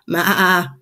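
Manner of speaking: wavering "maa" like a goat; goat bleat. A narrator's reading. Two goats caught chewing laundry, goat bleat. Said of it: "says Frick and Frack".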